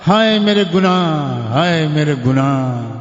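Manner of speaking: drawn-out lament, each cry stretched slow; wailing over sins. Retold or imitated. Young man crying before the Prophet, slow drawn-out wail. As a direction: wail it out like a sinner crying aloud. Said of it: "دہاڑے مار کے روتے ہوئے چیخ چیخ کر".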